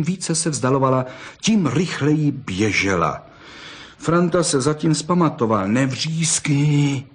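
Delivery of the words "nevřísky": coaxing. Acted. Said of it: "domlouval Pepíkovi".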